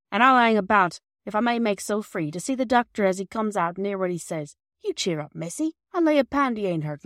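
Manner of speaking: loud, homely working man's voice; kindly old porter. Acted. Perks offering Bobby help in the garden, loud and homely. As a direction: reassure the girl, gruff but kind.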